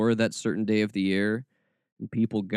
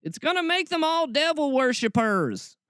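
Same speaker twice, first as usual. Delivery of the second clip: much higher mock-alarmed parent voice; mocking panicked Christians; 11 semitones higher than usual. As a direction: parody a worried churchgoer in high falsetto. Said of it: "all these Christians being like".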